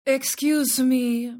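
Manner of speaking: put-on slow, tentative Spanish-accented excuse me; polite Spanish accent. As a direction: ease in gently, in a Spanish accent. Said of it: "speaks with a crisp Spanish accent".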